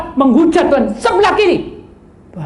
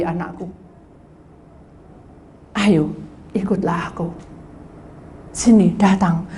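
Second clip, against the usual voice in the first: low, soft pleading call; gentle warning; 5 semitones lower, 4 dB quieter than usual. Acted. God calling his wandering child back, low and soft. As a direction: coax him back from the edge.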